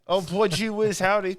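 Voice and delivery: false enthusiasm. Pretend. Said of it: "I can sense the false enthusiasm".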